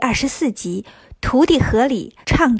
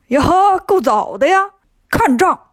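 monster crows out louder and higher; gleeful challenge; 5 semitones higher, 3 dB louder than usual. Acted. The monster, just woken, greets Bajie with a cocky yell. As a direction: pounce with a cocky shout.

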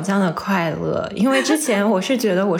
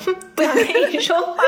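high fast pouting huff; pouty sulky voice; 9 semitones higher, much faster than usual. Retold or imitated. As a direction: sulk like a spoiled girl. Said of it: "然后我就想说".

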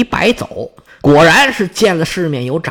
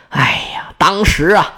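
sighing whisper. Acted. Lady sighs at the memory.

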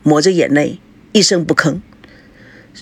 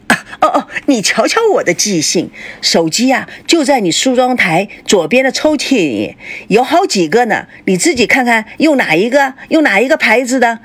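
eager, ingratiating, pitched up; butter her up eagerly; fawning; 4 semitones higher than usual. Acted. Mother fawning over her sulking daughter about phones. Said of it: "叶枫立刻拍马屁地说".

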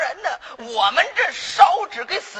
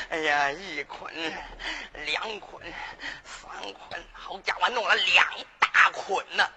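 tag; 6 semitones lower, 5 dB quieter than usual. Acted. 掌柜边清点边嘀咕.

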